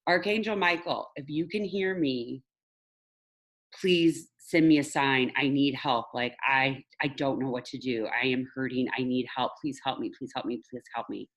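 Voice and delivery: pleading prayer fading to a near hush; desperate prayer. Retold or imitated. Retold desperate prayer to archangel.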